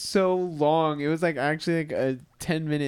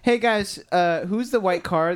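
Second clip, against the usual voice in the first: retold caller; 5 semitones higher, 5 dB louder, slower than usual. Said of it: "they go".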